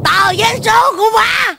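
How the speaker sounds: high, gleeful holler; elated shout. Acted. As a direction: shout it out in triumph. Mother overjoyed about winning ticket.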